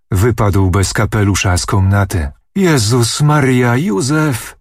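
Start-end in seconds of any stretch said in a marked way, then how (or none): 2.5-4.6 higher, slow alarmed outcry; frightened cry. A narrator's reading. Old lady cries out as uncle falls, alarmed. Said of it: "wołała panna Kulwiecówna".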